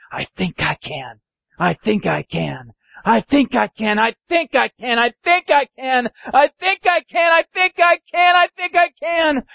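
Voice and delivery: rhythmic chug rising steadily in pitch; building determination. Acted. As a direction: build like a climbing engine. Engine climbing, gaining confidence.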